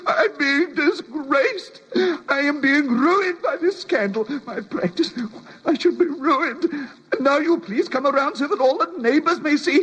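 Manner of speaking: a distraught man near tears, half laughing; tearful outburst. Acted. Doctor to the inspector, breaking down over the scandal, tearful. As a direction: voice cracking into sobs as he pleads. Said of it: "Oh, control yourself".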